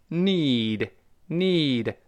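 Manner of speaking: NEED with tongue-tip n and long "ee"; NEED drawn out from a clear n; careful model pronunciation. Shown as a demonstration. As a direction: model NEED as one stretched syllable. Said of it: "舌尖还是发这个na".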